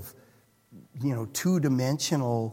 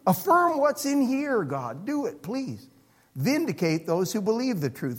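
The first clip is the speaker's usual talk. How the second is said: pleading cry. Retold or imitated. Psalmist's cry voiced.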